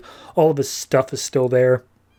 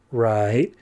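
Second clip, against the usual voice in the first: lower, rising retold "right"; tentative agreement; 4 semitones lower than usual. Student before the idea clicks, tentative agreement. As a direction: agree slowly, not yet getting it. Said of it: "little light bulb goes off".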